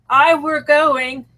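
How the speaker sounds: slow demo of northern English "were"; northern English dialect. Shown as a demonstration. Host showing rural English usage, light northern English dialect. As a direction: lightly imitate northern English, stretching the words. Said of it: "They say were all the time".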